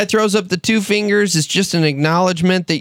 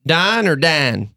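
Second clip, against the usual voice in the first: slow, imitated Michigan accent; much slower than usual. Receptionist asking a job seeker which name, Michigan accent. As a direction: mimic a Michigan local, drawing it out. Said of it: "and the lady goes".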